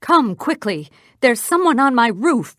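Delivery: high, loud frightened cry; urgent high cry; cried out. A narrator's reading. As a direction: call for help from the roof. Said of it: "she cried".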